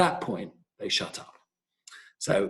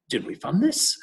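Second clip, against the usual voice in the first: retold angry question; 7 semitones higher, 4 dB louder than usual. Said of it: "And he started swearing".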